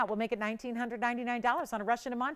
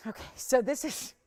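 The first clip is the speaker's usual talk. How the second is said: winded, catching breath; short of air between words. Real, not acted. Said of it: "let me catch my breath".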